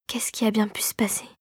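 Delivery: hushed, stunned whisper; whispered question. A narrator's reading. Clara, aghast at the ruins, whispers. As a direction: breathe it out very softly. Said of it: "souffla-t-elle".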